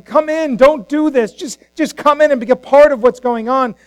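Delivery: acted earnest appeal; pleading. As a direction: plead like a father urging his son inside. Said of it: "went out and pleaded with him".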